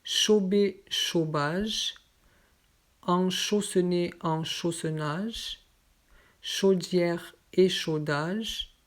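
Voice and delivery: slow, careful dictation of each word; word list reading. Shown as a demonstration. Teacher reading a pronunciation list to students, careful and slow. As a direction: read the list word by word for learners.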